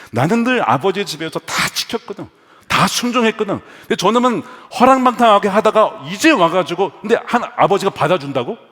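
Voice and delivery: indignant elder brother. Acted. Elder brother protesting his father taking back the prodigal, angry. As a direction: build into a mock-outraged complaint. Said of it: "막 화가 나는 거죠".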